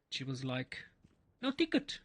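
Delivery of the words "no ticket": high, curt imitation of the cleaning lady; stern cleaning lady. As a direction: snap it like a strict attendant. Cleaning lady voiced in story.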